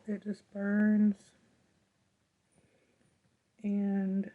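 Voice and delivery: talking through throat pain; sore throat voice. Real, not acted. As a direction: speak carefully around a painful throat. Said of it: "Talking after a while starts to hurt".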